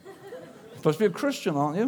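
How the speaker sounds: mock-scandalised questioning; acted judgmental busybody; disapproving. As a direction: needle them with incredulous questions, pitch jumping up. Acts a disapproving fellow Christian.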